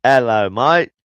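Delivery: badly faked Australian greeting; attempted Australian accent. Shown as a demonstration. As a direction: try on an Australian accent for show. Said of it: "It was supposed to be Australian".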